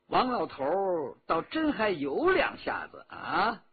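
laughing through the words; amused chuckle. Acted. Officer mocking old Wang's strength, chuckling. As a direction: chuckle as you grudgingly admire.

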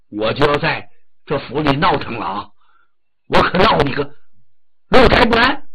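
a son's mock-menacing ultimatum; angry threat. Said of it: "他火了".

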